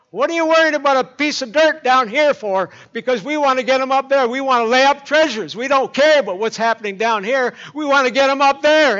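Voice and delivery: put-on very high, loud old lady voice; little lady calling across the living room, very high and loud; piping little lady. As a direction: pipe up like a tiny elder lady. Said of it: "piped up".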